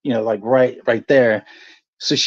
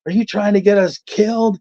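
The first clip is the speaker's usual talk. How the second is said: retold disbelief; 7 semitones higher than usual. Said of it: "I'm like".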